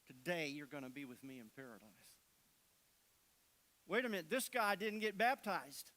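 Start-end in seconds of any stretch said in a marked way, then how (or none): 0.0-1.9 soft, gentle promise from Jesus; quiet promise. Acted. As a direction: hush it like a tender assurance.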